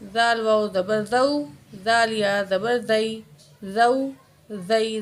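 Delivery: "زال" with a soft z sound; soft zaal. Shown as a demonstration. Teacher drills the letter for new learners, "زال" softly articulated. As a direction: say "زو، زئی" with a gentle consonant. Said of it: "زال کو نرمی کے ساتھ پڑھنا ہے".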